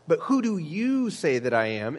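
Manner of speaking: YOU stretched and lifted slightly; stress on YOU. Acted. Jesus puts the question to his disciples, stress on YOU. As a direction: lean on "you" within the question. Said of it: "he uses this emphatic way of constructing the pronoun".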